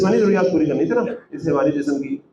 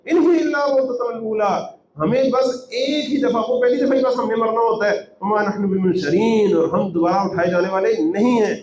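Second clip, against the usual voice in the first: higher-pitched, insistent quoting; emphatic insistence; 4 semitones higher than usual. Retold or imitated. Deniers insisting there is no life after death, emphatic. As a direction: quote their denial with force, pitched up. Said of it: "یہ لوگ بڑے زور سے کہتے ہیں".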